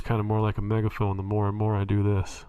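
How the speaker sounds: muffled through cupped hands; hands cupped over mouth. Shown as a demonstration. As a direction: speak into cupped hands like a megaphone. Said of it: "cup my hands and speak like this".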